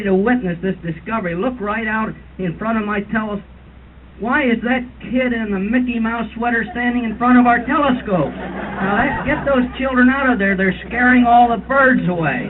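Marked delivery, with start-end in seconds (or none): 4.2-12.5 hammed-up annoyed outburst; mock exasperation. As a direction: complain like a put-out tour guide. Guide complains about children in view.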